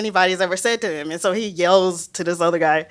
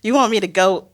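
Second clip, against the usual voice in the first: nervous disbelief. Retold or imitated. Scientist balking at going in the ocean, nervous disbelief. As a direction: balk in mock panic, pitch shooting up at the end. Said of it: "I'm getting so nervous".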